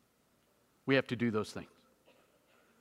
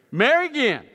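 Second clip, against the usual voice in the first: a touch of the wife, higher and louder; mock wife voice; 8 semitones higher, 7 dB louder than usual. Mimicking the wife's trap question, higher and louder. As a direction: voice her loaded question.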